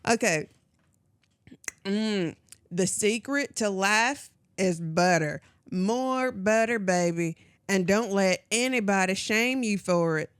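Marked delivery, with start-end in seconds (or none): 1.8-10.3 put-on Southern accent. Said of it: "Is that supposed to be a country accent?".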